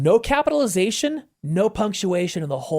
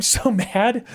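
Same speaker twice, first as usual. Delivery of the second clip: laughing; 3 semitones higher than usual. Real, not acted. Laughs mid-sentence.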